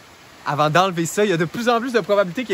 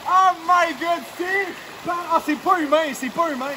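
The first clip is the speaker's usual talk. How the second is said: gasping from the cold; cold-shocked exclaiming; gasping in icy wind; 8 semitones higher, slower than usual. Real, not acted. Freezing water.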